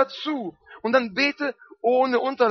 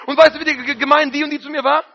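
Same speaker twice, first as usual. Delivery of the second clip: a hint of a child telling tales; eager tattling child; 3 semitones higher, faster than usual. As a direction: tell on someone to Papa. Tattling continues.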